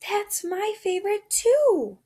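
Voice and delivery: high, loud delighted agreement; excited. Real, not acted. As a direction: gush with delight over the shared favorite.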